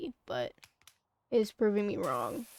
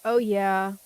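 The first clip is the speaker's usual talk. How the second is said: excited; 8 dB louder than usual. Real, not acted. A satisfying cleaning moment.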